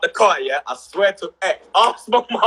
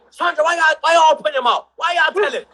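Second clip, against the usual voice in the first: imitating nan, higher and pushed; a grandmother's raised complaint; nan's high protest; 8 semitones higher than usual. Nan objecting as mum tells the grandson. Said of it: "nan was like".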